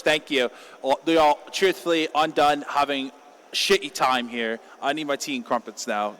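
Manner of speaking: lightly put-on British caster voice; mock British accent. Caster showing how a tier one would react, mock British accent. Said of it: "I'm thinking I'll show British".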